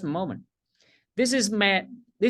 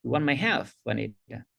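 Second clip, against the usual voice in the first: said with conviction; 5 semitones lower than usual. Shown as a demonstration. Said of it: "Just say it with the belief".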